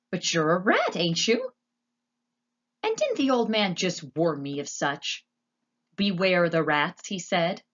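lightly voiced, puzzled simple girl; naive, suspicious character voice; brash serving girl. Voices Meg in the story.

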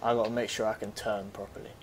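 unvoiced whisper while sneaking. Real, not acted. Player sneaking round a corner, whispering to himself. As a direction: breathe the words so the enemy won't hear.

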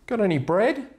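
very high, squeaky cartoon duck. Duck returns to the bar, squeaky and high. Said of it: "Duck comes in the next day".

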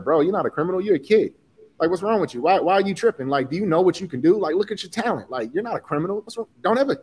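incredulous telling-off, a touch of anger; mock indignant teacher. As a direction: imitate a coach who can't believe what he hears. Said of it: "he was pissed".

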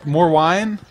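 high, loud put-on girly voice. Shown as a demonstration.

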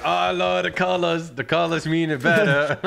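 airy mock fan of colors; mocking quote. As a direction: parody a shallow player, laughing. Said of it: "you're like".

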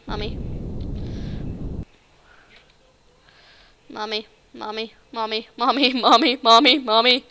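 terrified gibbering. Pretend. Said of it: "terrified gibbering while rocket fails".

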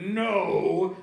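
loud, high, drawn-out refusal; emphatic acted holler; arguing father. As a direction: shout back stubbornly. Father in escalating yelling argument.

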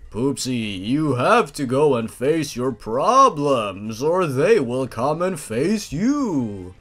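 slow, ominous clown; Laughing Jack voice. Acted. Laughing Jack warning Poopsie, slow mock-ominous. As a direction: drag it out slow like a creepy clown. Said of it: "how am I gonna do, uh, Laughing Jack's voice".

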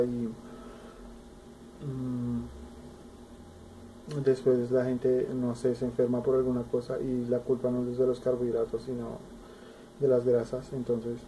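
talking between bites; chewing while talking. Real, not acted. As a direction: mouth partly full. Seen 3: small inset face; holds yellow food at mouth throughout.

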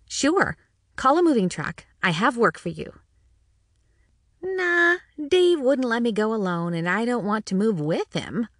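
hint of a friendly, bantering older waitress; lightly voiced waitress Jenny. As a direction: play the diner waitress, joking along.

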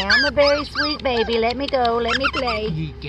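puppy voice. Pretend. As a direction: speak for the puppy, sweet and pleading.

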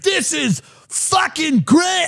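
yelled, high and slow, thrilled; mock excitement. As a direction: gush like you just got out. Excited crowd reopening.

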